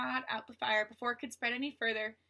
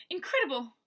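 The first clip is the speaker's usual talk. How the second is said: amazed; 3 semitones higher, 6 dB louder than usual. Acted. Eleanor amazed at the gap.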